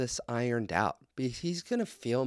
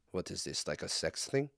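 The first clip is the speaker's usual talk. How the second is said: mock Putin; 7 semitones lower, 9 dB quieter than usual. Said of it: "And Putin goes".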